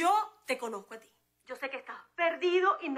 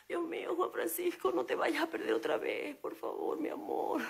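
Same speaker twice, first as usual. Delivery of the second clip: quiet prayer; 5 dB quieter than usual. Acted. Praying husband won't get lost.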